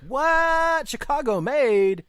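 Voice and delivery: high, loud disbelieving what; shocked double take; surprised. Real, not acted. Shocked at misheard name.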